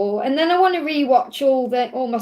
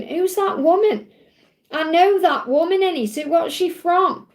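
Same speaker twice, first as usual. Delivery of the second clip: higher-pitched questioning to oneself; retold puzzlement; 5 semitones higher than usual. Viewer retells wondering who an actress is, puzzled. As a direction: re-enact racking your brain, pitched up.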